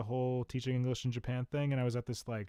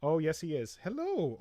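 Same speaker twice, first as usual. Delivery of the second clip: fond pet talk, rising high on the greeting; cooing to a puppy; 3 semitones higher than usual. Real, not acted. Greeting the puppy on the desk, cooing. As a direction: greet a tiny animal sweetly.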